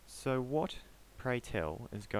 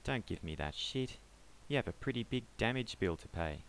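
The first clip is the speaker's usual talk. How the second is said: panicked pleading; 6 semitones higher, 5 dB louder than usual. Acted. Panicked man pleads his case.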